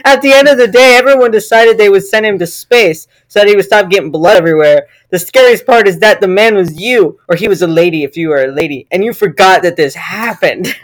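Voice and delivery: mock-serious scary tale; story reading. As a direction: read an absurd gory story aloud.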